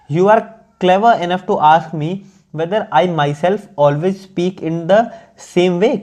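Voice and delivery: slow, measured English read-aloud; deliberate dictation-like reading; careful text reading. Acted. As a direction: read it out slowly, phrase by phrase.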